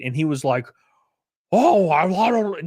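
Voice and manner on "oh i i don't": mock angry outburst, higher and louder; sputtering imitation of an angry traveler; angry customer. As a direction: play a customer blowing up. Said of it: "just, just angry".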